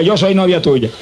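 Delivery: slow, deliberate declaration for the congregation to repeat; slow confession prompt. Shown as a demonstration. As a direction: say it slowly so they repeat it. (declaración lenta para que repitan)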